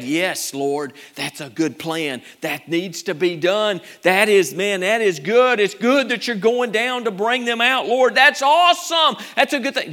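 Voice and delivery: preacher playing Moses thrilled by the plan; enthusiastic agreement.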